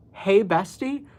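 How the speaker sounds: "Hey, bestie?" repeated with a disbelieving rise; baffled rising "Hey, bestie?"; incredulous. Real, not acted. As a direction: echo it back in disbelief.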